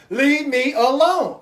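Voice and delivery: slow, drawn-out leave me alone; weary plea. Retold or imitated. Exhausted parent begging for rest, slow and weary. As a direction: drag it out, too tired to fight.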